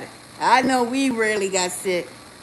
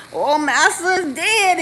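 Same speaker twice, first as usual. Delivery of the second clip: mock mourning; 7 semitones higher, slower than usual. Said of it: "y'all get to".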